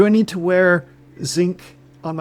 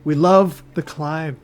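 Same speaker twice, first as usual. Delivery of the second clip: put-on slow, lightly Irish-tinged accent; put-on accent, maybe Irish; slower than usual. Climber of Irish descent to his Sherpa, accent creeping in. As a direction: slip slowly into a hint of an Irish accent. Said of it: "Are you doing an accent?".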